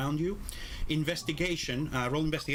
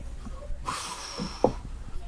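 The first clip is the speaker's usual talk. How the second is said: long breathy blow of air; long airy sigh of breath; long exhale. Acted. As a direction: exhale slowly like blowing out smoke. GM acts out the creature exhaling smoke.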